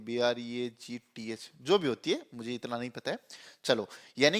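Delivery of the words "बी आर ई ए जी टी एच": spelling out slowly. Shown as a demonstration. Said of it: "ब्रेड्थ क्या spelling होती है".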